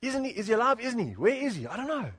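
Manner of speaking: lightly acted confusion, swooping questions; mildly bewildered. Preacher voicing disciples unsure if Jesus is alive, mildly bewildered. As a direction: play puzzled disciples, pitch swinging up. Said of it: "you don't know what to do".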